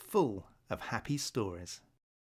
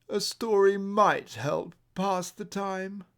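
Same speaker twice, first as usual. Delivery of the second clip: musing owl voice; 6 semitones higher than usual. Acted. Blue owl muses aloud.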